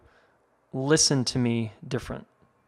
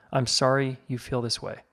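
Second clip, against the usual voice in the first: mild mock sarcasm on 'I'm sorry you feel this way'; a light, dismissive brush-off, lightly voiced; sarcastic. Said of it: "I often get a sarcastic".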